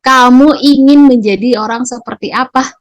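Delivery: teacher questioning harshly, judging the pupil. Shown as a demonstration. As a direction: fire the question like an accusation. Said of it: "itu akan seperti menghakimi".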